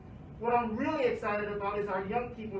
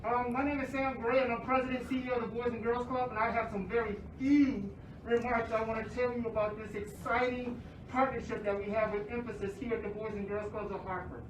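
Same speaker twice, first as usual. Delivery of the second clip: muffled by mask. Real, not acted. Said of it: "I apologize if I'm muffled".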